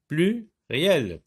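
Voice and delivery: Pluriel broken into plu, pause, riel; two separate beats for Pluriel; split into syllables. Shown as a demonstration. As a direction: isolate PLU at the start of Pluriel. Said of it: "la syllabe plus peut se trouver".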